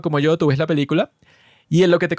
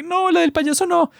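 much higher, frightened mother's voice; imitating scared mom; 13 semitones higher than usual. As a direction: squeak it like a mom afraid of clowns. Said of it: "ella le da miedo a las películas de terror".

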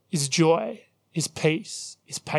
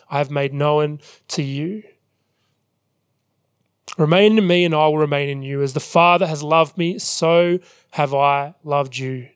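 measured, deliberate Bible reading; scripture reading; 3 dB louder than usual. Acted. Preacher reads Jesus' words to the congregation, measured scripture reading. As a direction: read it out firmly, phrase by phrase.

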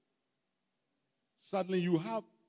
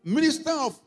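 high, loud, mock-awed build-up; mocking excitement; 9 semitones higher, 8 dB louder than usual. Preacher mocks a big-man minister's motorcade, high and loud. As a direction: pile on the motorcade with mock wonder.

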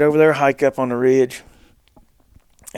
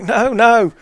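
raised, louder mock-panicked protest; terrified, imitated; 9 semitones higher, 6 dB louder than usual. Retelling terrified Brody's answer, mock-frightened and raised. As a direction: imitate a frightened refusal, pitched up. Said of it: "He's terrified".

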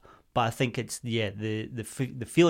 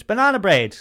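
heckler shout; 8 semitones higher, 7 dB louder than usual. Retold or imitated. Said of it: "one of them shouts".

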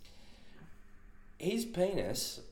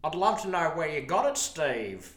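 higher, louder eager bloke voice; earnest Ray; 7 semitones higher, 5 dB louder than usual. Retold or imitated. Ray at smoko asking Steve where he got the pump, eager and higher. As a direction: ask it keen and innocent.

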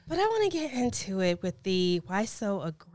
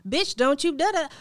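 confrontational snap; 8 semitones higher, 8 dB louder than usual. Retold or imitated. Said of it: "somebody's like".

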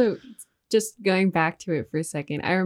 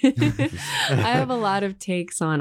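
laughing; 2 semitones higher, much slower than usual. Real, not acted. Laughs while starting answer.

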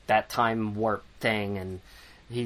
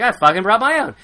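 higher, louder defiant outburst; indignant shout; 9 semitones higher, 9 dB louder, faster than usual. Retold or imitated. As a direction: throw it back at him, loud. Fitz defiant about supply.

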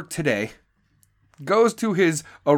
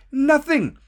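emphatic; 9 semitones higher than usual. Real, not acted. Emphatic repeat of nothing.

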